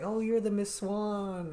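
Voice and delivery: high, slow mock greeting; imitating people. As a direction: parrot what people say to her. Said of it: "They're like".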